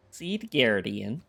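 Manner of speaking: put-on slow Wisconsin accent stretching Seed Guardian with stress on Seed; drawn-out Wisconsin accent. Streamer repeats the card name, slow mock Wisconsin accent. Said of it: "Wisconsin accent".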